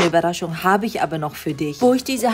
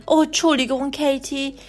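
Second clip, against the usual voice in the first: höhere Mama-Stimme, halbherzig; Mama entschuldigt sich; 5 semitones higher than usual. Acted. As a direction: als Mutter höher und etwas verlegen. (Mutter entschuldigt sich bei Katie, höhere Stimme)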